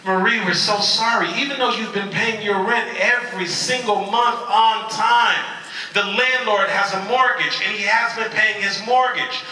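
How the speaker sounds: a hint of an insistent bank representative; lady on the phone. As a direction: draw out the name, then explain emphatically. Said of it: "And the lady said".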